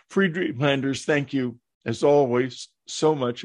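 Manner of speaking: talking through hiccups; hiccupping between words. Real, not acted. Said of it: "while I have the hiccups".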